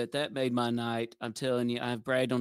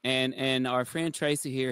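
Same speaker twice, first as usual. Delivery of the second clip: ordinary talk, nothing marked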